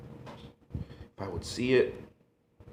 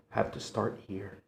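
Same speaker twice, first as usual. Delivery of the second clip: whisper; 8 dB quieter than usual. Acted. Confiding favorite chicken part.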